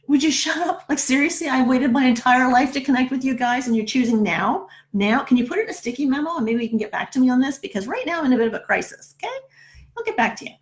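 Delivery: mock exasperation, talking back to a voice; exasperated retort. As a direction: retell an impatient brush-off with mild indignation. Snapping back at the angelic voice.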